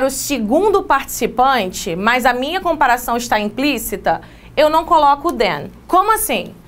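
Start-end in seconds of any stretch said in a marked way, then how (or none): none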